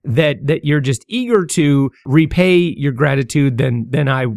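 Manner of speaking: stammering, repeating words; nervous stammering. Real, not acted. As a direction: stumble over words nervously. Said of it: "You'll notice I'm kinda stammering".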